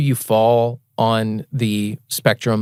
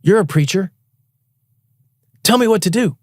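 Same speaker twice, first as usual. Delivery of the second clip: higher, imitating the drunk stranger; pleading drunk man; 9 semitones higher, 3 dB louder than usual. Drunk stranger begging the young man for help, lightly voiced. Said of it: "He goes".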